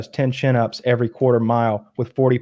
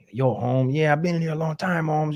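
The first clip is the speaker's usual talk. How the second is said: lightly put-on Cholo accent, higher; 4 semitones higher, 5 dB quieter than usual. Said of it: "Cholo accent".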